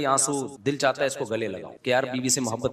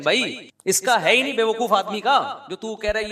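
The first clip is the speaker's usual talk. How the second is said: laughing; 5 semitones higher than usual. Real, not acted. Mocking foolish envy, laughing.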